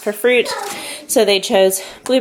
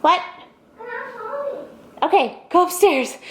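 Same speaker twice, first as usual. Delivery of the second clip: higher calling voice; 13 semitones higher than usual. Real, not acted. Calling to child.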